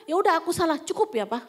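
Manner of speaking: retold impatient concession; dismissive apology. Wife stopping husband from talking, dismissive apology. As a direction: admit fault to shut him up. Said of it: "Saya nggak mau dengar dia ngomong lagi".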